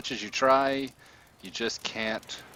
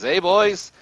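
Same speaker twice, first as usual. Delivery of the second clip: loud, high holler; rousing villain's yell; shout to henchmen; 9 semitones higher, 12 dB louder than usual. Acted. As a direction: call out across a distance to your gang. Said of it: "he shouts".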